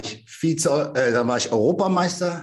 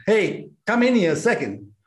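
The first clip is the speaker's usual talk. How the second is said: higher-pitched call to someone away; 6 semitones higher than usual. Real, not acted. Husband calling his wife into the interview, calling out. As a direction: call them over casually.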